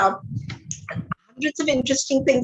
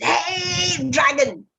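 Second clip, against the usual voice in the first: shouted; 6 semitones higher, much slower than usual. Acted.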